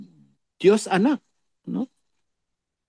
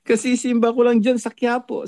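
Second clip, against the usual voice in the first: retold boast; 6 semitones higher than usual. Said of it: "pinagmalaki pa".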